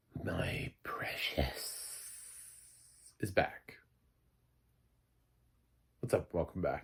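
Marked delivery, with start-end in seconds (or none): 0.2-3.7 very slow, breathy, drawn way out whisper. Opening his show, the host attempts Gollum's voice. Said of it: "my attempt at doing Gollum's voice".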